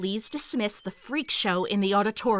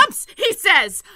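scornful laugh; 9 semitones higher, 7 dB louder than usual. Acted. Chief mocks his understatement.

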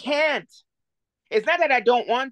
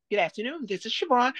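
imitated "white girl voice"; faster than usual. Mother imitating Siobhan answering at work, polite phone voice. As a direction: put on a professional receptionist voice. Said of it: "take the white girl voice off".

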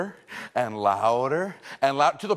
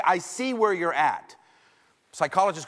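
validating; 3 semitones higher than usual. Shown as a demonstration. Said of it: "I say".

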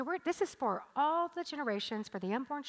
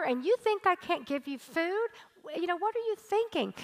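exasperated God; 3 semitones higher than usual. Acted. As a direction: play God fed up with ungrateful people. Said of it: "God in that scripture was saying".

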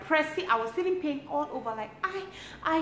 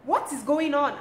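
higher, louder pained cry in labor; retold scream; 5 semitones higher, 4 dB louder than usual. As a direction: relive the labor pain, half shouting. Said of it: "I was just screaming".

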